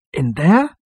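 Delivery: shouting to be heard above rain; shouted question. A narrator's reading. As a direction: call it out over the rain. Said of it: "shouted Trillian above the noise".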